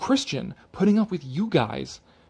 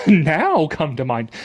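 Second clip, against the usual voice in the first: laughing scoff; 6 dB louder, slower than usual. Retold or imitated. Scoffing reread of the article.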